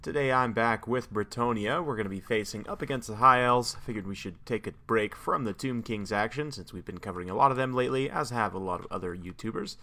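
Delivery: losing his voice, a bit hoarse. Real, not acted. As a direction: talk through a worn-out hoarse voice. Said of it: "I'm losing my voice a little bit here".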